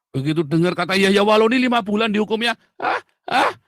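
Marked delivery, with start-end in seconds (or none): 2.8-3.5 mock deaf grunts. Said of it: "congekan langsung".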